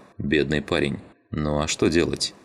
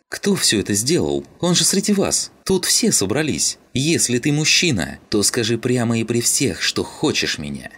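indignant demand; 7 semitones higher than usual. A narrator's reading. Rodka confronts the men, high and indignant. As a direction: shame them into confessing.

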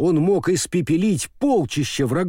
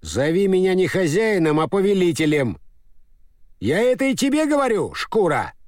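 stern rebuke; 5 semitones higher than usual. Acted. Master scolds servants.

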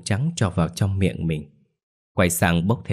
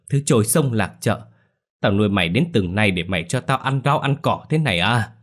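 angry screech; 3 semitones higher than usual. Acted. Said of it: "trừng mắt gào lên".

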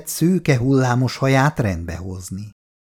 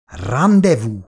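proud and meaningful; 4 dB louder, slower than usual. Acted. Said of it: "mondta jelentőségteljesen és büszkén Karcsi".

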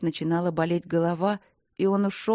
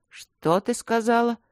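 slow, stunned question, higher and louder; 5 semitones higher, 4 dB louder, slower than usual. A narrator's reading. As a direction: ask it in shock, drawn out. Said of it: "ошарашенно переспросил Вэйши". (ошеломлённо, медленно и громче)

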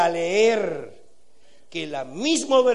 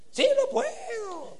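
mock sing-song, pitched way up; slower than usual. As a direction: parody a pious chant, high and lilting. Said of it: "El cantadito que usamos".

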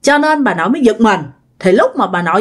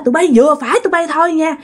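higher, fast, scolding the spirits; scolding ghosts; 5 semitones higher than usual. Retold or imitated. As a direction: chase them off with a broom, voice raised high. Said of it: "bà nội nói hả".

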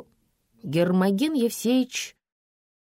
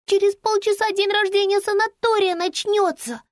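put-on a much higher, childlike urgent voice; little girl's voice; 4 dB louder than usual. Girl telling Lampa the party starts soon, in a high child's voice. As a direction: play an anxious little girl on the phone. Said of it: "шептала киса".

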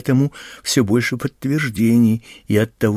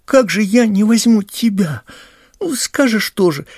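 put-on loud, high, indignant boy; indignant protest; 9 semitones higher, 6 dB louder than usual. A narrator's reading. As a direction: raise the voice high in hurt protest. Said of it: "возмущался Пашка". (возмущённо, громко и высоко)

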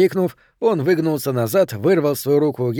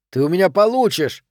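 higher-pitched threat; indignant raised pitch; angry threat; 5 semitones higher, 3 dB louder than usual. Acted. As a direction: threaten him with some heat. Threat during a fight.

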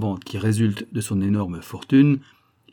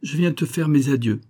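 thin reedy voice; 5 semitones higher than usual. Acted. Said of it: "dit-il d'une voix grêle".

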